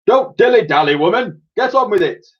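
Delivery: loud barking parade-ground voice; bellowing sergeant major. A narrator's reading. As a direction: bellow orders at her. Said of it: "bellowed the sergeant major".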